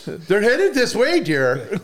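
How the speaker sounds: high, slow mock-worried deer; talking deer. Acting out an alarmed deer couple.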